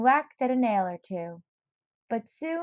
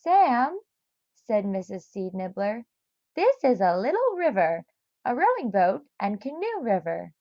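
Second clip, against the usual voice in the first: lightly voiced fussy neighbor; a hint of a worried old lady. Missus Seed Nibbler voiced.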